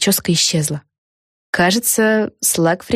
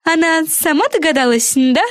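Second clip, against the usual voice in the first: high, pleased question; higher voice, proud and pleased; proud girl; 10 semitones higher than usual. A narrator's reading. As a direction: smile through it proudly. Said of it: "с гордостью улыбнулась".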